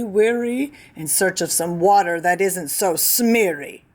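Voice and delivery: a fussy creature with his dander up; angry Lorax. Acted. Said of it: "snapped the Lorax, his dander was up".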